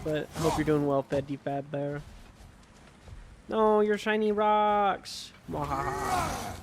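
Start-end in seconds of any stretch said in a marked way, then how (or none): 3.5-6.6 slow, high evil cackle; mad scientist. Pretend. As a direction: gloat like a mad scientist, mwahaha. Villain laugh at the rocks.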